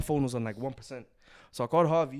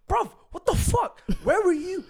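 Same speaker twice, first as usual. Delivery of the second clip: incredulous outburst; 4 dB louder than usual. Retold or imitated. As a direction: demand where he was, stunned. Confronting Harvey, high pitch.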